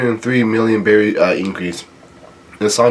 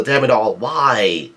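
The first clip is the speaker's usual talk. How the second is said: half-hearted, frustrated wail; mild angry yell; slower than usual. Acted. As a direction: complain crossly without really raising your voice. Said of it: "Luffy gets pissed off. He yells".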